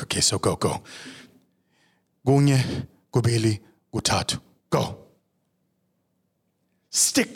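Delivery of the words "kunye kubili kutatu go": counting in isiZulu. Acted. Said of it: "count it down in isiZulu".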